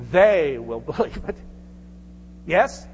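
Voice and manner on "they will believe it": "They" stressed with a laugh breaking into "believe"; laughing repeat. Shown as a demonstration. Preacher echoes the line to the church, laughing on "They". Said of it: "emphasized the word".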